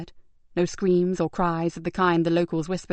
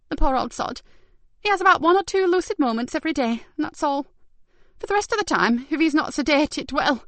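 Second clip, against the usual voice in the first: softened; 8 semitones higher than usual. Acted. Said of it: "her face softened".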